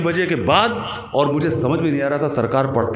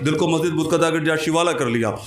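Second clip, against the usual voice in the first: impassioned recitation, building higher and more drawn-out; जोशीला शेर-पाठ; 3 semitones higher than usual. Acted. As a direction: build the verse into a ringing declamation. जोश में शेर. (जोश बढ़ाते हुए शेर पढ़ना)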